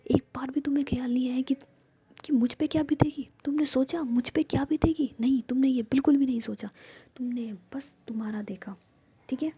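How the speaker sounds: a hurt friend's whispered reproach, rising; whispered anger. Acted. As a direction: scold her hotly but never leave the whisper. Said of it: "और तुम मुझ पे गुस्सा कर रही हो".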